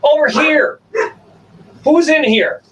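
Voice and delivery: calling a pet, bright and high; high dog-calling voice. Real, not acted.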